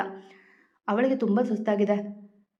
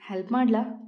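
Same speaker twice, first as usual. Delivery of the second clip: mischievous. Acted. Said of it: "ತುಂಟತನವಿತ್ತು ಅವನ ದನಿಯಲ್ಲಿ".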